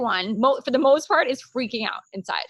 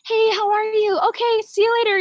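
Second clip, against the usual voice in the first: high, louder mock chirpy brush-off; exaggerated phony cheer, pitched high; fake friendly brush-off; 12 semitones higher, 6 dB louder than usual. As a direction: play someone greeting you without caring. Mimicking dismissive fake greeting.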